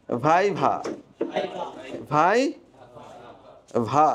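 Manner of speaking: ভাইভা, then split into ভাই and ভা with V; whole word first, then each syllable alone; correct viva drill. Shown as a demonstration. Teacher making students repeat seriously, syllable-by-syllable pronunciation drill. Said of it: "আবার serious হন".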